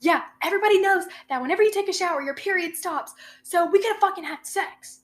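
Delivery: high, fast, know-it-all put-on voice; mocking girlfriend voice. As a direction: parody her as if it's obvious. Girlfriend's absurd explanation imitated.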